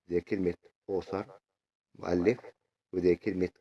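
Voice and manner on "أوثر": أوثر starting on a rounded "aw". Shown as a demonstration. Teacher reviewing the author example, O sound in أوثر. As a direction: say أوثر with an O-like first vowel. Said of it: "بتتنطق أو".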